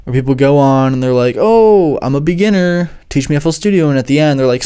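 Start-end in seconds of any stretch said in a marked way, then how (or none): 1.4-3.9 high, falsely innocent mock beginner; mock fake beginner. Prankster pretending to be a beginner, mock innocent. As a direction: play dumb in a raised put-on voice.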